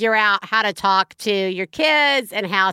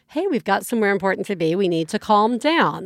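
calm parent voice; 2 semitones lower than usual. Acted. Parent getting kid out the door, put-on calm. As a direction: gently settle a worked-up child, acted. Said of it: "put on the calm voice".

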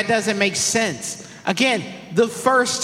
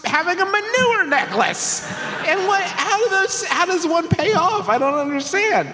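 incredulous; 8 semitones higher than usual. Real, not acted. Incredulous rant about the cure.

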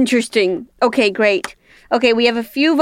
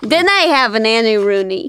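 a light Scottish accent. Shown as a demonstration. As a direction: say it with a Scottish lilt. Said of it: "Can you say that in a Scottish accent?".

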